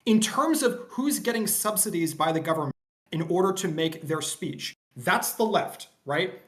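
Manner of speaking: mic dropping in and out; choppy audio dropouts; bluetooth cutting out. Real, not acted. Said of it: "Quibble, you keep cutting out".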